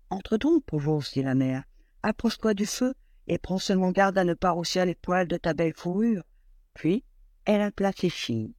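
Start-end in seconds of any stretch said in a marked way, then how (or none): 0.1-6.2 kind mother. Acted. Mother welcoming the cold bear inside, lightly voiced kind mother. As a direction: welcome him gently, a hint of mother.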